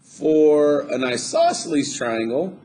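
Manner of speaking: voice went up. Real, not acted. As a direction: let the voice ride up without meaning to. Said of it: "oh, my voice went up".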